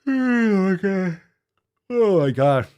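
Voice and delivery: slow, stretched oh my God; disbelief. Real, not acted. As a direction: drag it out in disbelief. Reacting in disbelief.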